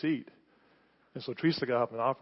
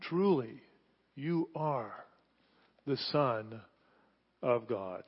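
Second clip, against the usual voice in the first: awed exclamation; 3 semitones lower, 5 dB quieter, slower than usual. A narrator's reading. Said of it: "this exclamation".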